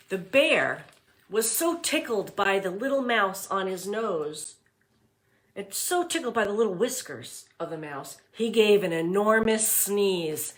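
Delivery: put-on read-aloud voice for young children; storybook reading. A narrator's reading. Teacher reading The Mitten to class, storybook voice. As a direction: narrate it warmly for the class.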